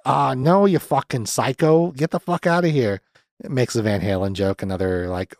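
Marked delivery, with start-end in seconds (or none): 0.1-3.0 higher-pitched mock outrage; retold angry rejection. Robbie throwing Linda out, mock angry rejection. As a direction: play an exasperated, dragged-out telling-off.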